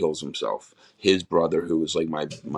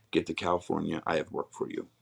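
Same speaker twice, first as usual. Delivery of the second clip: quiet inner voice; 7 dB quieter than usual. Retold or imitated. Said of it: "It just wasn't my voice".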